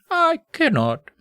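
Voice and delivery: very high, slow, hammed-up anguish; voice breaking. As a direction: drag out the refusal, cracking with mock emotion. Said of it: "his voice breaking with emotion".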